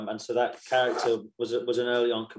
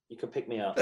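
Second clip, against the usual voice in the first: laughing; 2 semitones lower, 7 dB quieter, faster than usual. Pretend. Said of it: "I'll be like".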